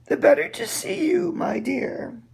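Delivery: very high, whispered and sinister; sly wolf whisper. Acted. Wolf leans in toward the girl, high and whispered. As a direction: hiss it out as the trap closes.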